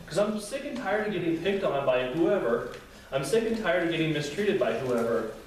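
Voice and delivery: high, exasperated demand; indignant complaint. Retold or imitated. Psalmist complaining to God, exasperated and indignant. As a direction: vent your frustration at God. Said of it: "you can see the anger".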